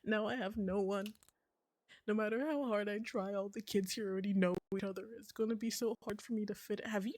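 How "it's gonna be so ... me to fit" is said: whispered sad admission. Real, not acted. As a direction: breathe it out, no voice. Confiding loneliness.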